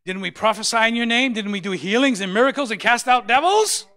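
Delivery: loud, high preaching of scripture; full-force sermon shout. Acted. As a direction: thunder the verse out to the church.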